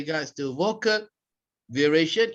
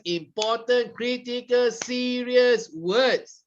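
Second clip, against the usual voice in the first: "important, critical, serious" pitched up, "serious" drawn out; stressed key words; 6 semitones higher than usual. Shown as a demonstration. Trainer showing which words to stress, emphatic list. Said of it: "you want to stress".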